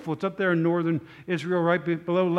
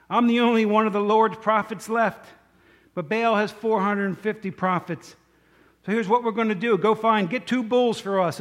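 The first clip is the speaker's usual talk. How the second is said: raised, emphatic preaching voice; voiced Elijah, higher and firm; prophet's proclamation; 3 semitones higher, 4 dB louder than usual. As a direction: declare it to the whole assembly. Retold Elijah addressing the crowd.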